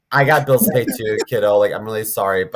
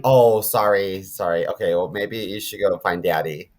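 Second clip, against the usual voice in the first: low, softer backing-off voice; sheepish apology; 7 semitones lower, 5 dB quieter than usual. Pretend. Clerk apologizing to kid whose mom is dying, sheepish. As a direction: back down quietly, play-acting embarrassment.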